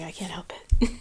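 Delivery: gulping water mid-sentence; swallowing between words; gulping a drink. Real, not acted. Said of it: "Sorry if you hear my gulping".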